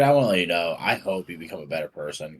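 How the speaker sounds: mild earnest encouragement before the insult lands; sincere feedback. Acted. Teacher addressing a student as if giving genuine feedback, understated sincerity. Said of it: "like, the tone".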